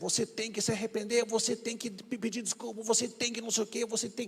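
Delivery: high, loud argumentative shouting.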